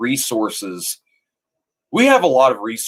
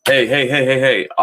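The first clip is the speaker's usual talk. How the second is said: calling out; 3 semitones higher, 3 dB louder than usual. Real, not acted. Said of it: "calling audience attention".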